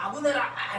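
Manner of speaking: high, long, drawn-out shout from a distance.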